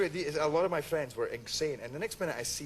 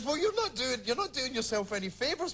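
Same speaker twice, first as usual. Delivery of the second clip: quoting mother; 9 semitones higher than usual. Retold or imitated. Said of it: "my mother called me up and she says".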